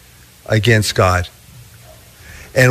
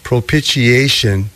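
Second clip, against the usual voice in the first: careful, measured "propitiation" so it isn't mispronounced; slow and careful. Real, not acted. Preacher saying a hard word for the congregation, slow and careful. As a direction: say "propitiation" slowly, sounding out each syllable. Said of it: "I have to say it slowly".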